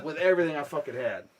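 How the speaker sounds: normal talking voice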